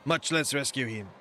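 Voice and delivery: badly faked French accent, reading a game character; shitty French accent. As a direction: put on a rough, formal French accent. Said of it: "shitty French accent".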